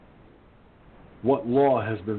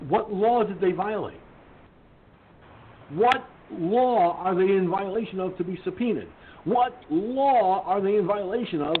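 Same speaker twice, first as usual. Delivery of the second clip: outraged; 4 semitones higher than usual. Real, not acted. Outraged rant at officials.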